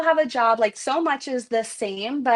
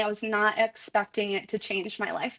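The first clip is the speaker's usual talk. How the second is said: ordinary delivery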